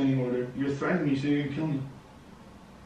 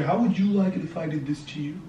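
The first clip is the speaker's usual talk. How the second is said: imitating a sing-song scolding teacher; mock kindergarten teacher voice; 4 dB quieter than usual. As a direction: parrot her preachy teacher tone. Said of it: "You sound like a kindergarten teacher".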